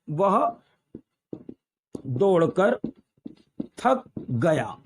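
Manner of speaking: spaced-out dictation, word by word; dictating. Shown as a demonstration. Teacher writing out the running example, dictating. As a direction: pause after each word as you write.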